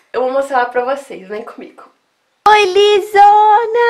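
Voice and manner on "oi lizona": pet talk. Real, not acted. Greeting her dog lovingly.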